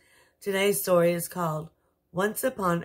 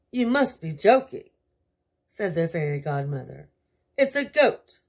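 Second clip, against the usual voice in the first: shocked fairy godmother; 5 dB louder than usual. Acted. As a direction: gasp it out in disbelief.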